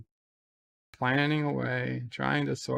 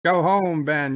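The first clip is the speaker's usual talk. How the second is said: mock stern order; 3 semitones higher, 6 dB louder, slower than usual. Father dismissing Sisko.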